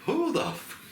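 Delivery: high squawk of an offended thug; mock outraged ape. Podcaster re-quotes the ape guard, high squeaky outrage.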